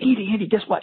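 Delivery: put-on little schoolgirl voice. Retelling a woman phoning him a month after the class, like a little schoolgirl. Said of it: "she's like a little schoolgirl".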